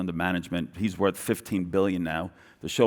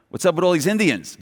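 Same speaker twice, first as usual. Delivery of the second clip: high, baffled question; lightly voiced bewildered local; mock puzzled Aussie; 8 semitones higher, 3 dB louder than usual. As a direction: play the confused customer walking in. Imitating puzzled Aussie customers.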